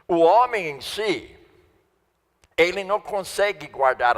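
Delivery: forceful preaching. Acted. Preaching at higher intensity.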